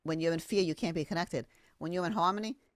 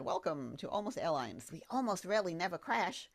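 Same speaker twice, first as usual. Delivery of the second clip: pilot announcement; 4 dB quieter than usual. Pretend. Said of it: "the pilot came on and said".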